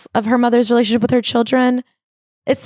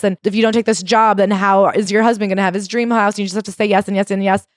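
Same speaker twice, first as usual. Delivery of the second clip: usual speaking voice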